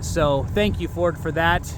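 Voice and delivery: sarcastic thanks, only lightly marked. Real, not acted. Driver thanking Ford after a costly repair, sarcastically. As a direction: give thanks with a dry touch of sarcasm.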